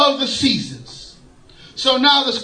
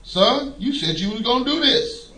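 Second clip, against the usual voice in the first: level, softer answer handed back; calm reply from God; 4 dB quieter than usual. Retold or imitated. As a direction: give it back calmly, no shouting. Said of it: "And he go".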